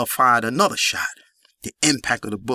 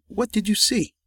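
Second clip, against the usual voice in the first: menacing question; 11 semitones higher than usual. A narrator's reading. Jamel questions girlfriend.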